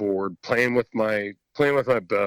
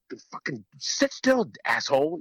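mock dad scolding; 4 semitones higher than usual. Dad gesturing from his tree stand.

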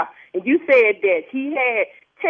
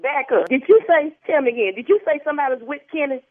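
rising suspicion; 6 semitones higher than usual. Real, not acted. Wife suspicious on phone.

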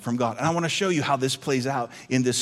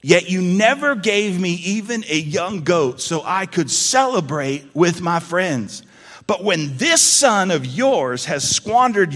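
louder resentful complaint; angry older brother; 2 semitones higher, 4 dB louder than usual. Acted. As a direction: push the grievance at father. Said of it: "He's, he's angry".

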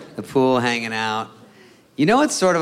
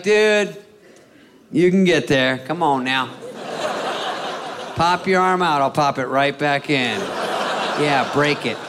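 mocking buddy refusal; 3 semitones higher than usual. Buddy refusing sunscreen, mock bro protest. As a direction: play the buddy who won't help.

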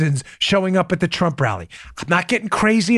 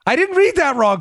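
laughing; 8 semitones higher than usual. Real, not acted. Laughing at headline.

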